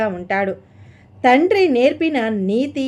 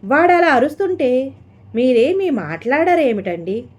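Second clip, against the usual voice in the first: higher and louder, a mother's sharp appeal to her husband; wife demanding her husband speak up, voice raised; 5 semitones higher, 4 dB louder than usual. Acted. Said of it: "గొంతు పెంచింది వసుంధర".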